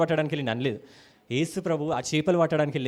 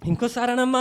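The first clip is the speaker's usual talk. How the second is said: doting father; 6 semitones higher than usual. Retold or imitated. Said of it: "అంటాడు".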